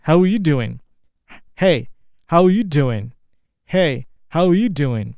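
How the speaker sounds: slow, loud, drawn-out come-on; slow, loud mock flirting at a party; flirty pickup line. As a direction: lay it on thick for a pretty lady. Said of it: "strike up a flirty conversation with a pretty lady".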